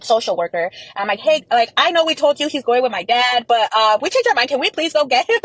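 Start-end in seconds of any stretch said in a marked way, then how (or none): 1.2-5.4 higher-pitched, climbing plea; retold pleading request. Asking the social worker to reverse the plan, rising plea. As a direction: voice rises as you ask sheepishly to undo it.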